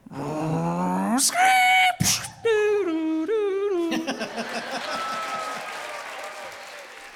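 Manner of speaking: high wailing vocal siren after a crash; siren sound effect. Pretend. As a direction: belt out a European siren wail. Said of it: "make the sound of a car crash followed by a European siren".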